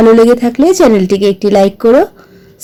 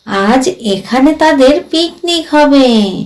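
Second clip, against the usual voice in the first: lightly voiced ghost, ominous. Ghost warns of his coming relatives, lightly voiced and ominous. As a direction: stretch each name as a gentle warning.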